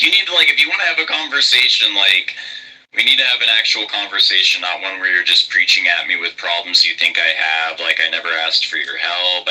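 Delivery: высокий резкий упрёк, быстро; sharp, blunt. Retold or imitated. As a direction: cut straight to the point, fast. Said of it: "I became very sharp and to the point".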